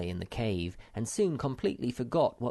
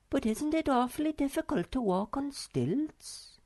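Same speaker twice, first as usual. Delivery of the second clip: gasping Snork Maiden. A narrator's reading. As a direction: call his name in shock. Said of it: "asked the Snork Maiden".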